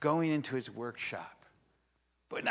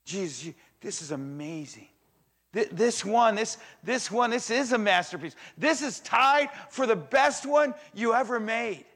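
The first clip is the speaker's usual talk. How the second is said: excited angels; 7 semitones higher, 8 dB louder than usual. Retold or imitated. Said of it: "they go".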